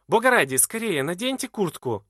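high, loud anxious plea; crying out. A narrator's reading. Edwarda cries out, begging Glahn to put on jacket. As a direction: cry out to him in alarm. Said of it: "кричит она".

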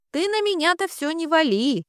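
high, sharp shriek of protest. A narrator's reading. Sister shrieks back at her brother, refusing the blame. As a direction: squeal the denial right back at him. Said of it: "взвизгнула Алёна".

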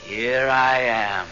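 slow, low drawn-out ghost voice; slow eerie greeting; ghostly call. Acted. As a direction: call in from beyond, slowly. Ghost speaks from outside.

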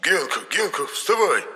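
высокий настойчивый оклик; будить, зовя высоким голосом. A narrator's reading. Енох будит спящего рассказчика. (высокий будящий оклик, по-русски: «подъём!»)

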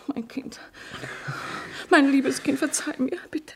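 mother pleading tenderly with her weeping son; tender plea. Acted. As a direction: hold him and beg forgiveness gently. Mother begs son's forgiveness.

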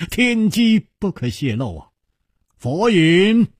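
high, teasing delivery; amused teasing. A narrator's reading. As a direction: keep the secret with a light chuckle in the voice. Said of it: "楚留香微微一笑说". (含笑卖关子)

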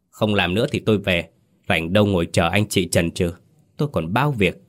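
a mild impatient scold from the sulking master; scolding sulkily. Acted. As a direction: tell them off, irritated but held in. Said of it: "thầy liền xị mặt quát sắn".

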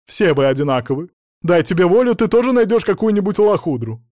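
loud, high scolding; shrill reproach; berating. Acted. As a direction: lash out at the husband. Wife berating husband.

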